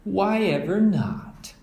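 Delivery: high, slow puzzled mother; a gently surprised question; Mama surprised. Acted. Mother overhearing the cubs, surprised.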